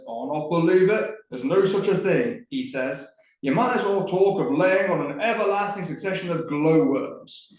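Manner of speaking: lightly voiced indignant uncle; uncle drawn up proud. Tom quotes his uncle's proud refusal, a lightly voiced indignant scoff. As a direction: puff up like a proud old lamplighter. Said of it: "my uncle draws himself up and says".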